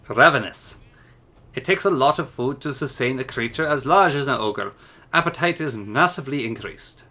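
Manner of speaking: a hint of a Scottish burr through the ogre notes; light Scottish accent. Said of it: "my Scottish accent isn't quite the same".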